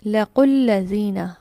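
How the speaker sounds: लकुल लज़ीना read slowly, each syllable drawn out; slow demo reading. Shown as a demonstration. Teacher shows students the joined words, slow and clear. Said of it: "अब आप देखिए इस letter को".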